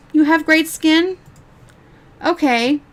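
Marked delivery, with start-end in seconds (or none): 0.1-1.2 slow, higher, disbelieving rise; incredulous question. Real, not acted. Vlogger questioning the streamer's skin claim, slow incredulous rise. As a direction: ask it slowly, not buying it for a second.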